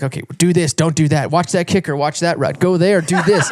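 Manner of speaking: amped-up coach on the line; hyped racer dad rattling off tips; fired-up rapid instructions. Retold or imitated. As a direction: bark orders like a fired-up dad. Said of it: "I'm like".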